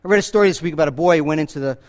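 ordinary talk

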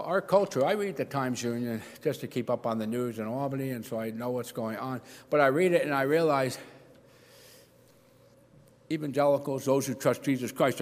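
ordinary talk

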